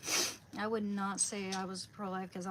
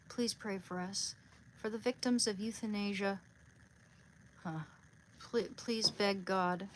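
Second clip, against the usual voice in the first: prayer. Real, not acted. Speaker asks the saint to pray for victims, praying. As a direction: pray it out, easing down to the amen.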